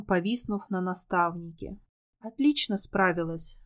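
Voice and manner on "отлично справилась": plain reading voice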